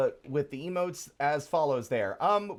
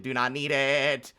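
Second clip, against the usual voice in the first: louder, slower, spelling it out; rising anger on each word; firm angry repeat; 2 semitones higher, 5 dB louder, slower than usual. Real, not acted. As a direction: put your foot down. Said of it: "I'm actually angry".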